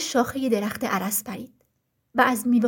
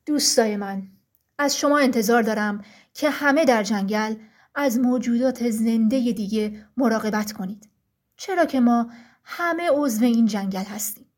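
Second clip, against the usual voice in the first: a lightly voiced stern ruler, firm and a bit louder; stern forest ruler; 2 semitones lower, 3 dB louder than usual. Frost, ruler of the forest, addresses the trees sternly. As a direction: speak as the frost king laying down the law.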